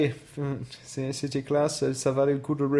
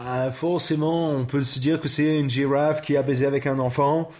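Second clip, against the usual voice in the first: put-on French spoken with English accent; mock-English accent in French; 3 semitones lower, slower than usual. Riffing with co-host on a giraffe hybrid, English accent.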